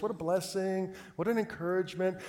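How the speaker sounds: lightly imitated sweet Southern caller; mild Southern sweetness. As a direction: gush politely with a hint of Southern. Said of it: "just a super sweet Southern voice".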